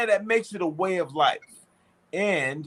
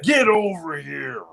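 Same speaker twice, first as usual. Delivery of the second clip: shouted command. Acted. Commanding someone to come.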